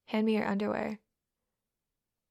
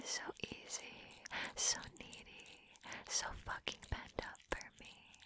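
teasing whisper; 17 dB quieter than usual. Acted.

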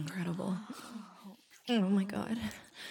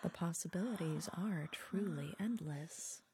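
whispering; 5 semitones lower, 8 dB quieter than usual. Acted.

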